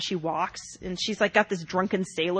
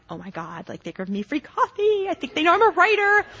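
thrilled, building up; excited; 8 semitones higher than usual. Retold or imitated. Excited call to husband.

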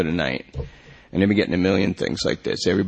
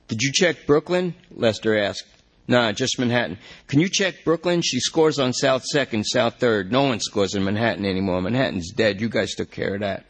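desperate junkie; 2 semitones higher than usual. Acted. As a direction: beg the cop to check the system. Lester asks about Brooklyn.

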